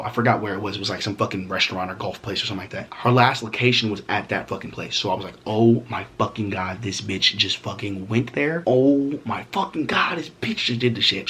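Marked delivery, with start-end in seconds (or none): 5.5-11.3 drawn-out fuming oh my God; slow seething disbelief. Retold or imitated. Fuming at the gym over her location, in slow seething disbelief. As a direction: let it sink in slowly, furious.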